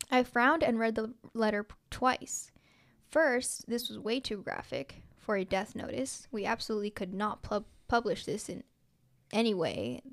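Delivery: measured, even read-aloud delivery; story narration. A narrator's reading. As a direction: read it out clearly like a written story. Reads own story aloud.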